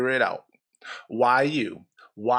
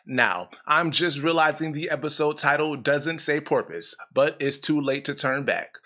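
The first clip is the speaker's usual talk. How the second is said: scripted show intro. Acted.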